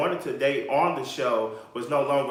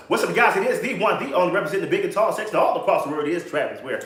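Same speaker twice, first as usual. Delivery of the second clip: mock announcer intro; 3 semitones higher, 4 dB louder than usual. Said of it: "I represent the big and tall".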